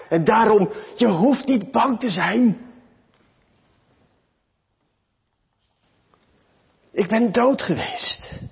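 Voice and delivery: impassioned preaching. Real, not acted. Preaches triumph over death. (bevlogen, met verheven stem preken)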